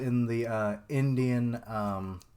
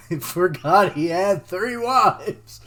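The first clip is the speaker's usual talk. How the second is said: words broken by real, louder laughter; laughing; 7 semitones higher, 11 dB louder than usual. Real, not acted. Vlogger cracking up about Shiva's three wives, real laughter. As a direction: crack up mid-sentence.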